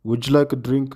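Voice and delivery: "Would you" run together with a j sound; linked d and y. Shown as a demonstration. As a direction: say "Would you" as "wuh-joo", connected and level. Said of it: "ድ ምስ ይ ጅ".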